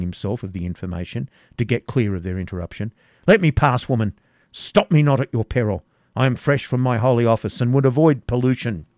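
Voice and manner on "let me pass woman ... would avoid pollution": louder, higher, brushing them off; stern command. Acted. Cedric pushing past the women, a loud stern command. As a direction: order them out of his way.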